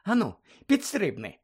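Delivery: high, teasing dare; mocking mermaid. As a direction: taunt him to jump for it. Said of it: "зловтішалася русалка".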